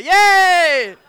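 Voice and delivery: long, high, loud yay; drawn-out cheer. Acted. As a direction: whoop it out and hold the note. Audience cheer as he starts.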